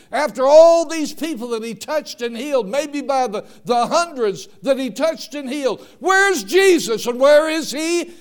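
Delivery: loud, high, building preacher's cry; full-force preaching. Acted. Preacher asking the congregation where Jesus went, loud and building. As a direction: preach it out to the back pews.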